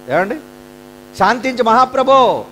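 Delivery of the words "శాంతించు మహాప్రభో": mock begging. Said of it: "అమాయకులు కదండి".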